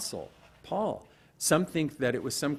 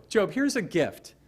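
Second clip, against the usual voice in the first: higher and louder, a bright mock offering; mock gift offer; 9 semitones higher, 6 dB louder than usual. God handing Job a gift, higher and louder mock offer. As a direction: hand the gift over with a lifted, playful voice. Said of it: "Like Job".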